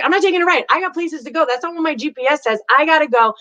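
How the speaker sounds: a mildly hammed-up impatient driver; pushy loud inner voice. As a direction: brush off the advice like you're late. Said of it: "that's the loud voice that usually gets in the way".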